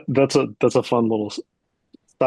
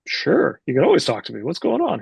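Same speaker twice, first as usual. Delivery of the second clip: breezy agreement; 5 semitones higher than usual. Retold or imitated. Acts own breezy reply to friend.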